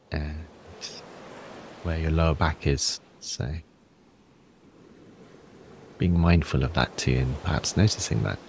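calm guidance with long pauses between phrases; guided breathing exercise. Acted. Teacher guiding listeners through a body scan, calm and unhurried. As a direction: lead them gently through it, unhurried.

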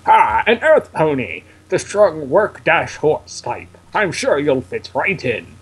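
lightly voiced kindly professor, drawn out; measured professor character read; slow, stately mentor greeting; Professor Oak. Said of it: "Professor Oak's voice".

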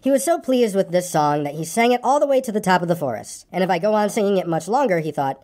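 story narration. A narrator's reading. Reader telling of Pooh's coming adventure, story narration. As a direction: read it to children as a bedtime tale.

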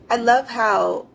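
heavily ironic, mock appreciation; sarcastic. Real, not acted. Budgeter griping about the bank's account list, sarcastic. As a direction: say it with pointed sarcasm. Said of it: "I say this with all the sarcasm".

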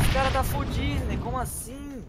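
high, loud, slow drawn-out tease; slow mocking voice. Real, not acted. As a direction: stretch it out to mock him. Mocking lost enemy again.

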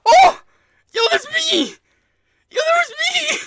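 very high, loud excited scream; real fan shock. Real, not acted. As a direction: shriek at spotting yourself in the game. Sees self credited in game.

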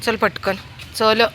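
high, loud coaxing call. Real, not acted. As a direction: plead with him to come along. Coaxing child to come.

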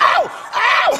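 high, laughing "ow" cries; hammed-up burned yelps; mock yelps of pain. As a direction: yelp like your hair's on fire. Retold reaction to the burning hair.

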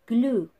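Glue said loudly and over-clearly; slow clear model word. Shown as a demonstration. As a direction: punch out Glue so kids can copy it. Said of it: "Repeat after me".

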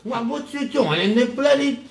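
put-on British accent. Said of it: "you sound like Gordon Ramsay".

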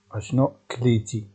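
ordinary talk

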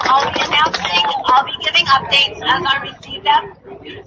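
hoarse, strained voice; losing her voice. Real, not acted. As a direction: push through a voice that's going. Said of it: "Sorry, I'm losing my voice".

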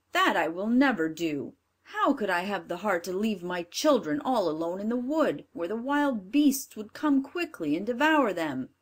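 a pleading woodcutter; firm father. Acted. Father refuses.

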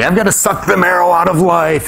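hammed-up carpe diem enthusiasm; youthful zeal. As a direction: play an overeager young idealist. Acts his Dead Poets zeal.

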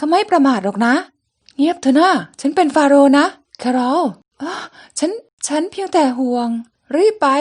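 voicing each character in turn through a comic; lively comic-book reading; comic read aloud. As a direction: act out the comic panels one by one. Reads comic, voicing all characters.

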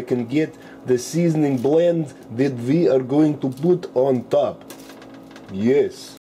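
mock Russian accent, dropping articles like the/a; hammed-up Russian accent throughout the cooking video. Cooking show host jokes to viewers in a mock Russian accent. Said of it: "today I will be talking in Russian accent".

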